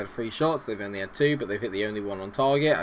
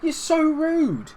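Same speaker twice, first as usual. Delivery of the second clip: very high, drawn-out squeal of offence; affronted protest; 3 dB louder, much slower than usual. Pretend. Player sworn at by Frank, affronted high squeal. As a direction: stretch it out, pitch soaring.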